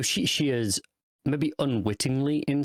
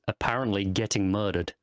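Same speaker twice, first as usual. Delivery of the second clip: deadpan. Retold or imitated. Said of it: "completely deadpan".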